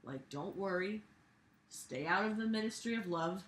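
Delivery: soft, lightly voiced Big Brother. Mocking the principal as a soft, soothing Big Brother. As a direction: soothe like a dystopian overlord, lightly. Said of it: "like Big Brother saying".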